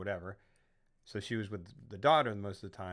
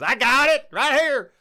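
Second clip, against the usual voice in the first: much higher and much louder, a strained grin; weird grinning reply; 14 semitones higher, 13 dB louder, slower than usual. Retold or imitated. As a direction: answer with an odd forced smile in the voice. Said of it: "the weirdest smile in the world".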